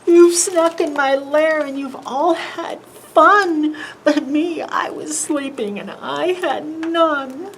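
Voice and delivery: grumpy bear. Acted. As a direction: complain like a bear whose nap was stolen. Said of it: "like a very mad bear".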